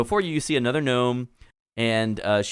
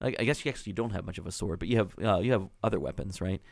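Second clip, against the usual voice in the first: put-on valley girl gnome; 3 semitones higher than usual. Clotilda keeps talking to player.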